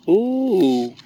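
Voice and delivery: long drawn-out cooing ooh; admiring ooh. Real, not acted. Fussing over a little one, admiring ooh. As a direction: draw out an impressed ooh.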